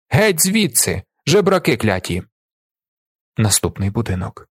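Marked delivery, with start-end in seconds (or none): 0.1-2.2 higher-pitched, restrained angry shout; стриманий крик. A narrator's reading. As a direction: chase them off with a mild narrated yell. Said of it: "одна з жінок кричить". (стримано вигукнути, проганяючи)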